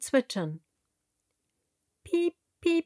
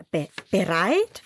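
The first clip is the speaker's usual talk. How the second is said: puzzled stammering piglet; 3 dB louder than usual. A narrator's reading. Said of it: "fragt das Schwein".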